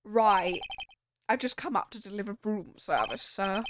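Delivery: lightly voiced British bellboy; businesslike British hotel servant; British accent. Bellboy delivering room service, British accent. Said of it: "British accent for this guy".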